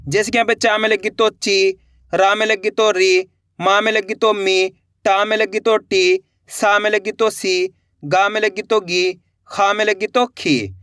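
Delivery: ची री मी टी सी गी खी with short ी; short ee sounds. Shown as a demonstration. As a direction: pronounce each syllable short, not stretched. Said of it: "तो अपन कम खींच के पढ़ेंगे". (छोटी ई को कम खींच के बोलना)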